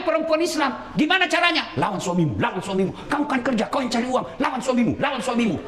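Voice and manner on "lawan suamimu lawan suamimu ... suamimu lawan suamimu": lightly voiced tempting devil; whisper of Satan. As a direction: coax like the devil, only a hint of it. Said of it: "Itu bisikan setan". (bisikan setan yang menggoda, sedikit diperankan)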